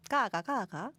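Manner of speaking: rise-and-fall Gyeongsang tones; Gyeongsang dialect. Shown as a demonstration. Host practising her dialect phrase, Gyeongsang accent. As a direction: repeat it with Gyeongsang lilt. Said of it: "가가, 가가는 갱상도 말인데".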